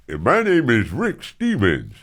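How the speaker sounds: a hint of a smooth radio voice; slow announcer read as Rick Stevens; imitating Rick Stevens. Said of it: "this is literally how he sounded".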